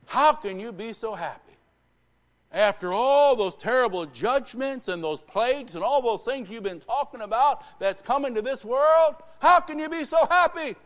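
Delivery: high, loud, building to a shout; exasperated banker. Retold or imitated. Banker confronts preacher about his doomsday teaching, incredulous outburst.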